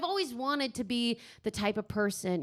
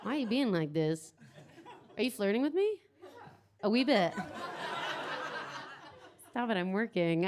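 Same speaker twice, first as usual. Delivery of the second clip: flirty teasing banter. Acted. Teasing flirty audience member.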